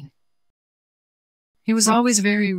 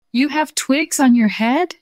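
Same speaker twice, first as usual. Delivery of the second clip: mock cry; 8 semitones higher, 5 dB louder than usual. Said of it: "cried Snowball".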